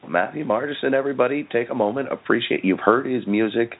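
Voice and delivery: a lively radio-host shout-out; host hype-up. Real, not acted. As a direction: sell the guest to the crowd. Host calling out guest to audience.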